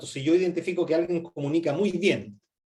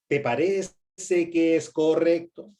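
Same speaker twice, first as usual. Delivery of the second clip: exaggeratedly slow; slower than usual. Shown as a demonstration. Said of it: "Ya lo exageré una vez".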